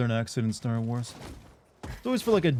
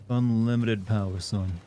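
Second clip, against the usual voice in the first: Southern drawl with son; slower than usual. Shown as a demonstration. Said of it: "make it sound authentic".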